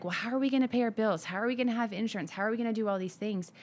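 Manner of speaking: retold money fears. Wife recalling her fears before planting, lightly imitated anxious rush. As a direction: rattle off old worries in a quick run. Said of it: "all of the fears I had".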